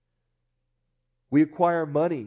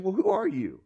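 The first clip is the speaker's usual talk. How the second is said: skeptical, a touch higher, demanding who he is; challenging crowd; 5 semitones higher than usual. Retold or imitated. Crowd challenging Jesus, mildly skeptical questioning. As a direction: question his authority with doubt. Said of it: "the people are saying".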